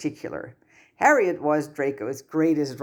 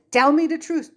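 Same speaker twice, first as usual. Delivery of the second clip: stern demand; 13 semitones higher, 5 dB louder than usual. Acted. Angry guardian demands truth.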